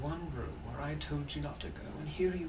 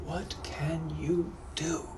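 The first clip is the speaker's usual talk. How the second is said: slow, hushed British repeat; hushed British gentleman; 2 semitones higher, much slower than usual. Acted. Captor mulling the offer to himself, hushed British accent. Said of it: "I'm also a British gentleman from the eighteen hundreds".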